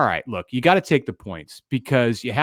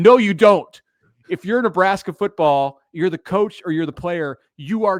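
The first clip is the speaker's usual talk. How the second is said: mock very loud, high yell; 8 semitones higher, 4 dB louder than usual. Retelling yelling at his car's audio over a Nebraska football stat, retelling a yell. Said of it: "And I'm yelling".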